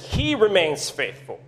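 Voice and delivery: "he" stressed and held up, "remains faithful" falling. Shown as a demonstration. Preacher contrasting God with faithless us, stress on "he". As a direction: land on "he" before the rest. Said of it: "Really putting the emphasis on that part".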